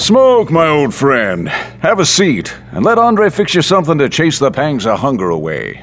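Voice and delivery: put-on high, jovial welcome to an old friend; hearty greeting.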